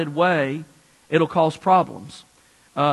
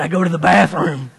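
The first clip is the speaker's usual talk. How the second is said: deep bass voice. Retold or imitated. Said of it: "she had a bass voice".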